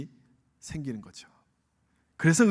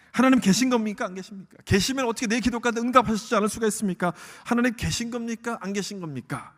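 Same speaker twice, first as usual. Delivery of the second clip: raised, pressing plea to God; insistent protest; 3 semitones higher than usual. Acted. Believer protesting unanswered prayer to God, insistent questioning. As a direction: demand an answer, voice lifted.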